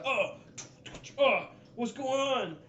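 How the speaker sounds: high, drawn-out, slow cry; commotion shouting. Acted. Game master imitates noises of the commotion, high cries. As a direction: call out high as a muddled background voice.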